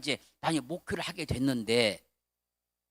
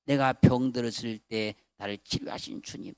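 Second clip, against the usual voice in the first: poem recited; 8 semitones lower than usual. Shown as a demonstration. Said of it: "시를 썼어요".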